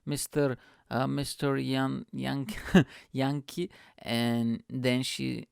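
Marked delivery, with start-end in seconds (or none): 0.1-3.7 halting, slow attempts at a foreign name; broken, hesitant sounding-out; struggling to pronounce. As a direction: stumble through an unfamiliar surname. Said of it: "and she's like".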